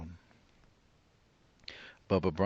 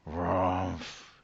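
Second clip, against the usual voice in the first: bear grumble. Acted. Bear growling as he walks off into the night. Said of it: "he growled".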